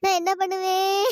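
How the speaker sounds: drawn-out sobbing wail; slow, hammed-up crying with sobs; wailing lament. Woman laments to herself over money spent, wailing. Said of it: "ஒப்பாரி வச்சிட்டு இருக்கா".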